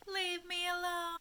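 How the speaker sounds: dramatic title. Acted.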